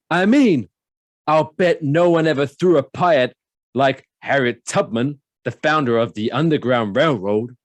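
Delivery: high, loud hammed-up Nicolas Cage voice; Cage imitation. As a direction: ham up the movie quote as Cage. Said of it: "without the imitation".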